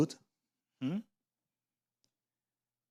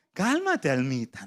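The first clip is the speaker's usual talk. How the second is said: laughing through calm down little soul; laughing soothe; slower than usual. Shown as a demonstration. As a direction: chuckle it out gently. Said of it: "digamos todos a la vez". (calmando a la almita entre risas)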